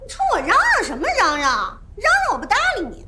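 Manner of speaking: defiant retort, pitch swinging up; quarrelsome. Acted. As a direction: snap back at the officer. Quarrel with police officer.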